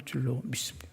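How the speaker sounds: 줄로 믿습니다 whispered very softly; whispered affirmation. Real, not acted. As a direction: whisper the confession intimately. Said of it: "repeated faith formula".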